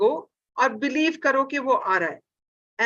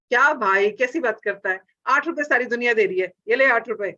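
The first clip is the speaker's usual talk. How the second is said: louder, dismissive bargaining; rude haggling; 3 dB louder, much faster than usual. Retold or imitated. Customer haggling with vegetable seller, mock rude. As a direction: brush off the seller's price.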